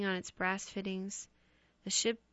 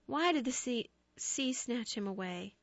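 crying out at the sea; 4 semitones higher than usual. Acted. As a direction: rail at the sea through grief. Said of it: "she cried".

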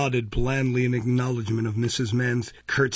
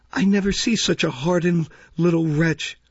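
raised, indignant scolding; malignant; 5 semitones higher, 4 dB louder than usual. A narrator's reading. Matron glaring at little Dick, malignant. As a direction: condemn the child with spite. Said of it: "looking malignantly at Dick".

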